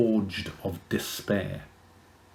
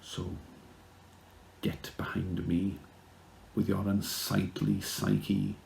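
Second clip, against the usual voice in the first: whisper; 3 semitones lower, 7 dB quieter than usual. Acted. Dramatic spoken-word poem.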